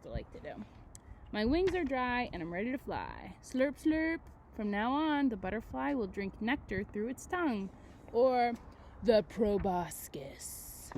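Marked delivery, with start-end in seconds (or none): 1.3-8.5 put-on reading to children. Reads book aloud to class. 9.0-10.9 slow secret whisper of the word. Shown as a demonstration. Teacher whispers the new word to the class.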